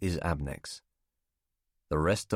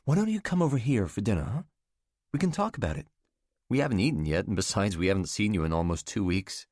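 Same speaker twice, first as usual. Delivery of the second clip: warm woman's voice. Acted. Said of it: "Catherine inviting warmly".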